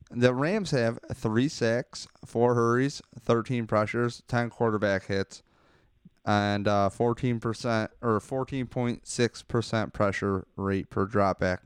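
slight lisp, mouth still numb; numb face lisp. Real, not acted. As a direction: talk through a numb mouth. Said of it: "if I have a lisp, it's 'cause, uh, my face is numb".

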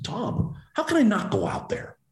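high-pitched retold plea; pleading protest. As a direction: argue back as if it's obvious. Acts out own pleading retort.

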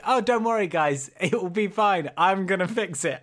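lilting imitation of breezy promise; mock reassurance. Co-host mimicking his friend's promise, mock-reassuring. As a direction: teasingly mimic someone promising a fix.

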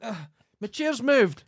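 high, slow, startled "ah" at the moved chair; startled surprise. Real, not acted. Speaker notices his chair moved, startled and drawn out. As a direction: caught off guard, drawn out and high.

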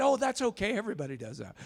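high-pitched breezy brush-off; making light of it. Retold or imitated. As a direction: wave it away to stop the tears. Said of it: "I'm trying to make light".

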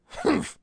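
sharp high humph; snort. A narrator's reading. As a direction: snort it out dismissively. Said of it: "snorted Bland".

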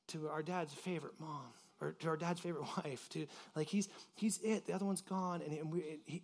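quiet pleading. Retold or imitated. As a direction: beg quietly for the brother's life. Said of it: "of pleading".

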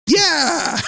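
high, loud triumphant yelp; excited yell. Retold or imitated. To his wife, who named the movie, shouting yes. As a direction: cheer like she finally got it.

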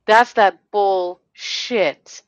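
building real anger. Real, not acted. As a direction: hammer it home harder the second time. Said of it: "And now I'm getting mad".

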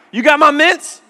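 put-on high, loud kid greeting with a laugh; eager kid. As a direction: pounce on dad demanding candy. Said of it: "Five o'clock, bam".

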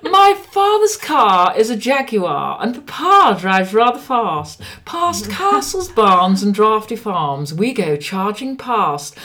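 high, slow posh elocution recital; posh elocution rhyme. Shown as a demonstration. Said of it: "a little rhyme that I used to have to say".

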